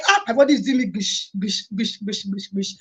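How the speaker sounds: fading gush. Real, not acted. Describing body excitement, fading.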